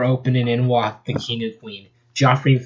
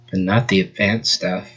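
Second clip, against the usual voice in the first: dry, unbothered delivery, lower; deadpan voice; 3 semitones lower than usual. Acted. Fiona shrugs off fighting skills, deadpan. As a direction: toss it off without interest. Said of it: "she'd have a deadpan voice".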